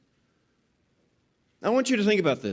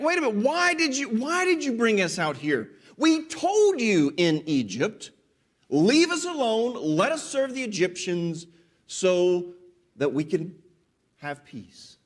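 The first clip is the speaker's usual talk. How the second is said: sarcastic. Retold or imitated. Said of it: "they're sarcastically asking this of Moses".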